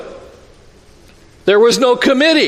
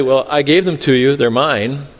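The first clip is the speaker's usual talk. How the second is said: gentle; 6 semitones lower than usual. Retold or imitated. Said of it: "the Lord just says gently".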